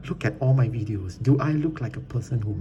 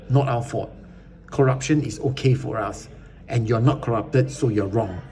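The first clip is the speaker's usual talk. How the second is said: mock voice of the reviewer; 2 semitones higher, 3 dB louder than usual. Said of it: "This is what he's trying to say".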